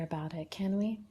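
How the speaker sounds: whispered, mock-serious scolding; mock-stern whisper. Host whispering to a teasing commenter, mock-stern whisper. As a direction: hush them like a pretend-strict teacher.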